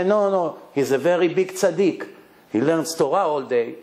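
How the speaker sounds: no, no, he's a very big tzaddik said with earnest conviction; earnest matchmaker. Retold or imitated. Matchmaker insisting the pious groom is right, earnest. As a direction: sell him as a great tzaddik in earnest. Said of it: "and you say".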